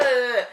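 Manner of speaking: acted exasperated "ugh"; loud irritated groan. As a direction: groan loudly in mock irritation. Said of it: "I'm getting irritated".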